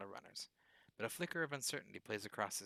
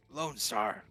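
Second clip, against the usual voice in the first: loud cry of "Lone Star!" at the usual pitch; hoarse roar; 8 dB louder than usual. A narrator's reading. Duncan shouts his badge name at the police, loud. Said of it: "His voice comes out in a hoarse roar".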